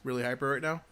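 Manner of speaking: talking while chewing gum; words round a piece of gum. Real, not acted. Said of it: "I have gum in my mouth".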